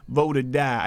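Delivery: put-on light rapper accent on "Vote or die"; a hint of a rapper's accent, leaning on "Vote". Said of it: "I do the accent".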